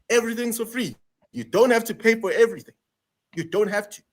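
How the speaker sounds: pressing the point with real passion; passionate rant. Real, not acted. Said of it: "I can see you're very passionate about this".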